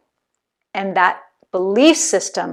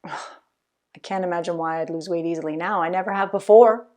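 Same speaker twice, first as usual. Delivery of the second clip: resigned groan; 3 semitones lower, 4 dB quieter, faster than usual. Retold or imitated. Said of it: "Does that voice in your head say".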